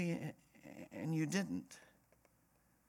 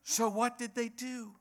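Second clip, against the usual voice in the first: "So what did they do" in a high-pitched voice; wrong question posed; 10 semitones higher than usual. Shown as a demonstration. Preacher posing the wrong question to congregation, high-pitched "do". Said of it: "That's the wrong question".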